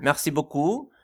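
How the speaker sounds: put-on French thank-you in heavy accent. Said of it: "con este acento".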